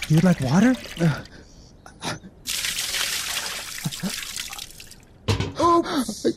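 cruel fake sympathy; mocking. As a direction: taunt him with false kindness. Guard mocks thirsty prisoner.

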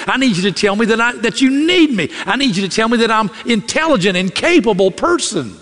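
pleading wife. Retold or imitated. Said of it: "What she meant was".

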